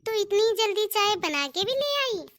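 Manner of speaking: mildly amazed question, pitch lifting on the end; lightly acted amazement; pleasantly surprised. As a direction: react with a touch of surprise. Mother-in-law amazed tea came quickly.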